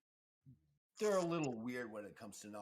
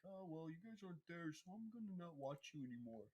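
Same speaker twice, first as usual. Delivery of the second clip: higher, mocking voice of a fickle viewer; imitating a fickle fan, higher and mocking; mock whiny viewer; 8 semitones higher, 9 dB quieter than usual. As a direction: sneer it like a sulky fan leaving. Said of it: "I love how people are like".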